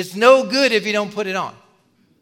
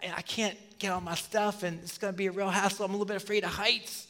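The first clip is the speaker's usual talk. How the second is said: muttered excuses; 10 dB quieter than usual. Retold or imitated. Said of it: "And he's like".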